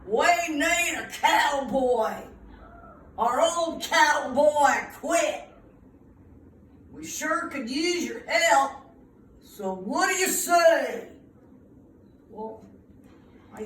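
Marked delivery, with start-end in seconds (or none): 0.1-11.1 lightly growled boss, a bit louder; a hint of a rough cowboy boss; mild gruff cattle boss. Cattle boss asking the boy to join, mildly gruff. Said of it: "The cattle boss growled".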